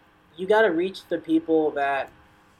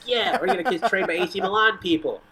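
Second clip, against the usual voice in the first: mock-excited cheer, pitched up; excited parents; 5 semitones higher than usual. Parents cheering over a new soccer academy, mock-excited. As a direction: imitate thrilled parents celebrating together. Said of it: "all the parents were high-fiving each other".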